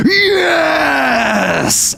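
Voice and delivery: enthusiastic Hound. Acted. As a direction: yell it with wild glee. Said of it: "really enthusiastic".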